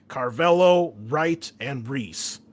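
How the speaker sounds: a military commander barking a briefing, lightly voiced; brief the squad like a hard-nosed colonel; a hint of a tough Marine officer; gruff commanding officer.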